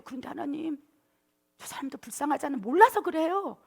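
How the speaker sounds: coaxing plea that rises at the end; mild squirming aegyo. Acted. Abraham pleading with God for Sodom's people, gently coaxing. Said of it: "막 몸을 베베 꼬면서".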